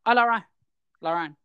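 put-on Irish accent passed off as Scottish; mock Scottish greeting that sounds Irish. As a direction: imitate the Scottish neighbour in an Irish lilt. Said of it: "let's pretend my Irish is Scottish".

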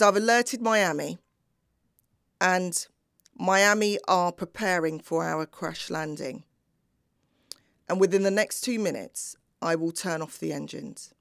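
a pilot taking command over the tannoy. Retold or imitated. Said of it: "It became louder. It was far more authoritative than before".

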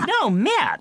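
"Matt" with a flat upstate New York vowel, said high; Rochester accent. Retold or imitated. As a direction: insist on the name in a broad Rochester accent. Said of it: "I'm like".

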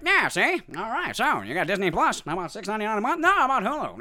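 high, loud auctioneer patter; selling streaming deals, high and loud. Retold or imitated. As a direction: rattle off prices like an auctioneer. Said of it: "sounded more like an auctioneer".

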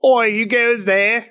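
high, drawn-out sentry's challenge; calling out. Acted. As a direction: shout it down from atop the gate. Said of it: "calls out".

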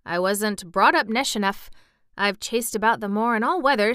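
put-on lively Yorkshire boy character; country lad, enthusiastic. Boy telling of sniffing on the moor, delighted. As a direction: relish it in a country dialect. Voices Dickon in story.

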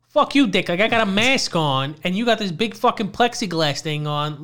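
retold irritated retort; angry comeback. Masked customer firing back at the clerk, angry comeback.

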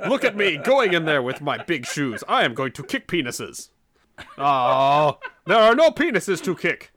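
mock-heroic, bombastic declarations; Thor. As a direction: play a blustering would-be champion. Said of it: "Thor got involved in this".

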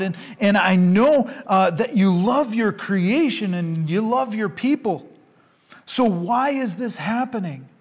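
Habakkuk crying out to God, loud and pleading; prophet's anguished plea. Acted. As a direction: cry out why as if demanding an answer.

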